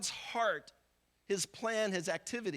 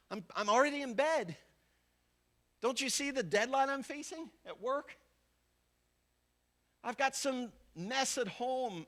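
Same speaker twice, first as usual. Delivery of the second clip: higher-pitched, mildly put-upon protest; acted impatient excuses; 4 semitones higher than usual. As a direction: brush off the caller as too busy. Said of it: "who says with the posture of your life".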